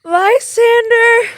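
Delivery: calling Lysander's name loud and slow, stretched; waking alone, Hermia calls out for Lysander. Acted. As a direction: shout across the dark for him.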